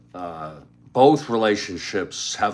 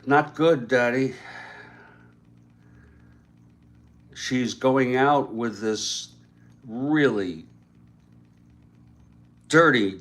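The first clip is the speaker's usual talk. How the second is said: daughter's voice; 2 semitones higher, slower than usual. Retold or imitated. Daughter complains about her boyfriend.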